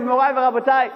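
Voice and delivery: usual speaking voice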